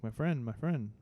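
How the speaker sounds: teasing put-on Indian accent, lightly done; a hint of an Indian accent, ribbing his friend; mock Indian accent. Teasing his co-host about the phone store, mock Indian accent. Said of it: "Why you keep putting an Indian accent on me".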